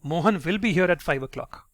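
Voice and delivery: "will" stressed with full certainty. Shown as a demonstration. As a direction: lean on "will", completely sure. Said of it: "you're stressing on the word will".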